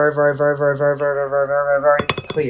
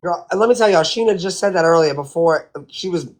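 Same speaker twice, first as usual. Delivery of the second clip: gossipy whisper; 3 semitones higher than usual. Real, not acted. Sharing gossip with the audience.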